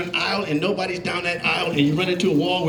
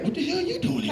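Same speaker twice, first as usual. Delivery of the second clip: pitched up, puzzled and laughing; mock suspicious stare voice; 10 semitones higher, 5 dB quieter, faster than usual. Mexicans in McDonald's staring at the newcomer, baffled and laughing.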